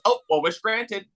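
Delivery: tossing off the punchline with a laugh; laughing sarcasm. Retold or imitated. Recapping a movie joke to friends, laughing and sarcastic. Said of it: "And then it goes".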